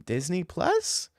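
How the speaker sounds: high, whining hesitation; hammed-up whiny refusal. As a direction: play a reluctant boyfriend, near crying. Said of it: "mock whiny refusal".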